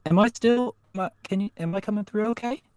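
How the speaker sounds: garbled digital mic voice; broken-up robotic connection; robotic glitchy audio. Real, not acted. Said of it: "you sound like a robot".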